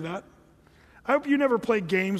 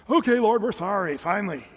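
loud, grudging mock apology that drops away; acted-out hollow contrition; insincere repentance; 4 dB louder than usual. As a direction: give in with a token sorry. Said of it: "Not true repentance".

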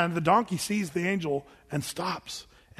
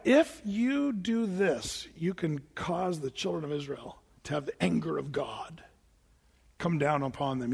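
scheming whisper; 2 semitones lower, 4 dB quieter than usual. Retold or imitated. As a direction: lean in and whisper the plot. Balaam scheming with Balak.

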